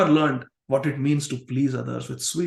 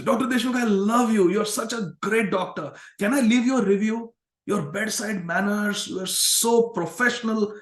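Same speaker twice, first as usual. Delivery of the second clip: higher, adoring praise; sweet-talking gush; 5 semitones higher than usual. Retold or imitated. Patient gushing praise at the doctor for a prescription, adoring. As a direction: gush to win him over. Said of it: "why she's speaking so sweetly".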